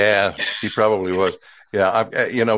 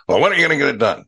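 imitated growl; 6 semitones higher, 4 dB louder, much faster than usual. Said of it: "he growl-, growled at me".

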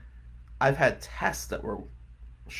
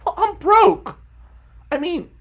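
laughing; 9 dB louder than usual. Real, not acted. Laughing exclamation.

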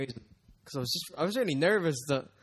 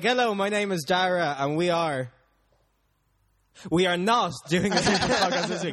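slow, louder, long pauses between words; halting nervous intro; 4 semitones higher, 5 dB louder, slower than usual. Retold or imitated. Dara mocks his own solo episode, slow with pauses. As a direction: read it stiffly, gap after each word. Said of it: "thirty-second pauses between words".

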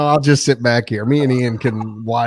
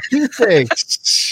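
drawn-out excited cheer; 11 semitones higher, much slower than usual. Pretend. Echoing cheesesteaks drawn out.

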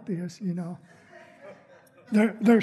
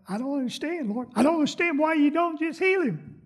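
whiny complaint to God; 4 semitones higher than usual. Acted. Whining complaint to the Lord.

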